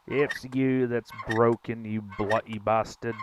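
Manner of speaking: put-on playful stab at an English accent; mock English accent. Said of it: "trying to learn about ... England".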